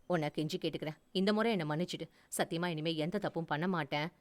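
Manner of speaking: soft, understated tearful begging; tearful pleading. Acted. Husband begging his wife to forgive him, a touch tearful. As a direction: plead gently, eyes welling a little. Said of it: "என் கண்கள் கலங்க".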